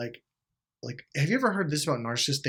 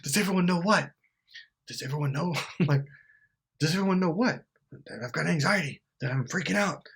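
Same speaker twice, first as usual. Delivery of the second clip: nervous mock voice, breaking into laughs; laughing through an anxious mock voice; 2 semitones higher than usual. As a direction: play it anxious, cracking up. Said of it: "they're like".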